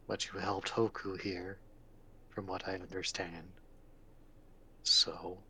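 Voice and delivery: low, calm giant; gentle, solemn golem reassuring a child. Acted. GM voices the golem.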